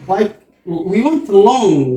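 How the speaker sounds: long drawn out slowly; stretched long. Shown as a demonstration. Teacher showing a long vowel to the class, drawn out. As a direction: stretch long out to show the sound. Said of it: "long sound".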